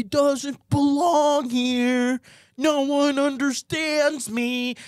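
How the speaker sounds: slow, mopey sad voice; sad mopey student. Pretend. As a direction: mope like a lonely teen.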